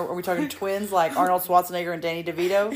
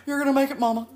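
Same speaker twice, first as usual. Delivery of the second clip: higher, louder cheer; cheering stranger; 8 semitones higher, 6 dB louder, faster than usual. Retold or imitated. Aunt mocking herself cheering on a tired mom, higher and louder. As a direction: cheer her on like an eager stranger. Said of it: "doing the exact".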